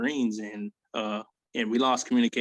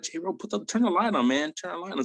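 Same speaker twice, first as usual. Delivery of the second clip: higher, urgent plea to flip the light; urgent call; 6 semitones higher than usual. Retold or imitated. To J-Ro in the dark tent, urgent and higher. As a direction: hurry your buddy to the switch.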